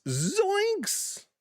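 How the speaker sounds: high squeaky cartoon yelp; Shaggy impression. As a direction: squeal it like a spooked cartoon stoner. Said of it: "I believe Shaggy said it best".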